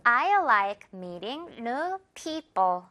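slow model sentence, people ending in a light bo; I like meeting new people, with airless final syllable; light second p. Shown as a demonstration. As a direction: read it slowly and drop the second p of people. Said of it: "뒷부분 가볍습니다".

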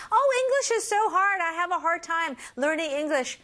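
high-pitched complaint; complaining learner. Acted. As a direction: play a learner moaning about a hard language. Voices a struggling English learner.

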